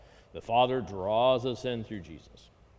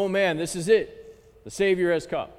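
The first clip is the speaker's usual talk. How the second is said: raised, eager voice; excited shepherds; 4 semitones higher than usual. Retold or imitated. Teacher imagining the shepherds eager to go. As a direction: blurt it out like thrilled shepherds. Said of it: "should have perked up".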